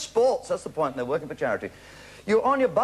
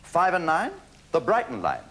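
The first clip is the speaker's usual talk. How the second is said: bingo caller. Acted. Bingo call, shouted.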